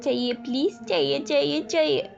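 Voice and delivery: put-on high, whiny begging like a little child; wife begging for ice cream like a child; childish whining. A narrator's reading. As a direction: plead like a spoiled kid. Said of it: "बच्चे की तरह हरकत".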